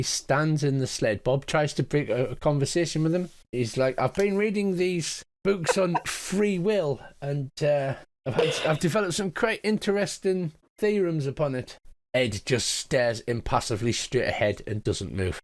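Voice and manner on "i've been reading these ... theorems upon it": a hint of a curious golem musing; Bob's voice. Bob the golem speaks.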